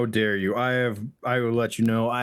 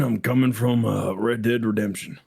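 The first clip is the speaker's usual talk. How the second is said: a touch of Arthur Morgan; Arthur Morgan accent; 2 semitones higher, 3 dB louder than usual. Acted. Player introducing himself as Arthur Morgan, light cowboy accent. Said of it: "I'm Arthur Morgan".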